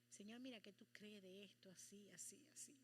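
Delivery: soft, dropping to a whisper; secretive bargaining. Retold or imitated. Preacher retelling how she tried to bargain with God, whispered. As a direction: haggle with God under your breath.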